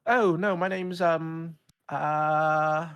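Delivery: high, slow put-on British accent; a hammed-up posh British kid; fake British accent. American kid auditioning in a fake British accent. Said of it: "their best British accent".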